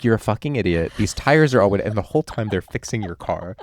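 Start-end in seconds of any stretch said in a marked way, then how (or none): 0.0-1.8 louder playful scolding; rough them up verbally while helping; mock East Coast insults. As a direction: roadside helper insulting the driver, playful mock anger. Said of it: "the whole time they're like".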